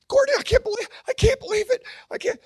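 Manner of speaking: high and loud retold yelling. Woman hugging the comedian at a funeral, yelling high. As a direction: gush at him in disbelief, loud. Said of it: "And she's yelling".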